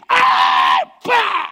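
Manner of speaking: high, loud exorcising yells; exorcism shouting. Retold or imitated. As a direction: bark out the exorcism at full force. Pastor batendo no endemoniado. (gritos de exorcismo, bem alto e agudo)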